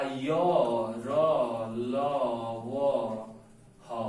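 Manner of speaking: single syllables with long gaps; dictated letters. Shown as a demonstration. Teacher listing letters for notes, spaced-out dictation. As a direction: list them one by one, pausing after each.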